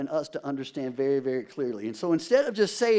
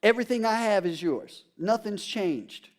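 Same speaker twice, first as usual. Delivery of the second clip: tender father. Acted. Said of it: "He says".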